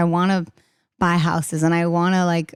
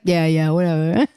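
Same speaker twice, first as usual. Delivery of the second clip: laughing dismissal. Retold or imitated. Her dismissive younger self.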